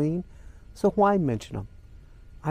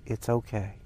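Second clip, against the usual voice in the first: softer, lower, gently consoling; tender reassurance; 6 semitones lower, 8 dB quieter than usual. Retold or imitated. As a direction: retell her comforting words quietly. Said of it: "she was saying".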